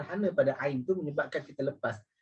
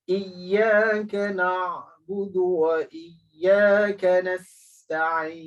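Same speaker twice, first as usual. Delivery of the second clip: slow, chanted, a bit louder; Quran recitation; 2 semitones higher, 4 dB louder, much slower than usual. Shown as a demonstration. Teacher reciting the fifth verse for the class. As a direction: recite the verse slowly, drawn out. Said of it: "Terus ayat yang kelima".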